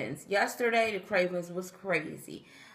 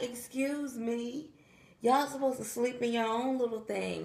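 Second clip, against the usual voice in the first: mock scolding; 5 semitones higher than usual. Scolding kittens in the bed.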